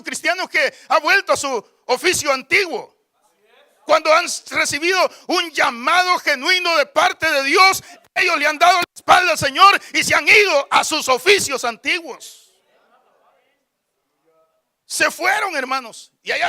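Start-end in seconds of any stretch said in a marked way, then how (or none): 3.8-12.5 forceful, sustained sermon delivery; preaching. Real, not acted. Preacher warning believers who turned their backs, forceful preaching. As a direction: preach it out to the whole congregation.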